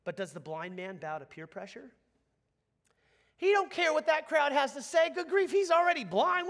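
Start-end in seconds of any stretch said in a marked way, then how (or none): 3.4-6.5 high, loud burst of disbelief; loud, incredulous preacher's outburst; impassioned outburst. Real, not acted. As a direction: exclaim it at raised pitch and full force. Preacher erupts on the blind man's defiance.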